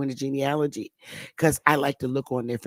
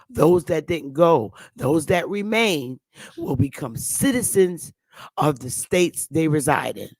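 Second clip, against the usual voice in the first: reading the act; 4 dB louder than usual. Retold or imitated. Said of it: "that damn Indian Removal Act".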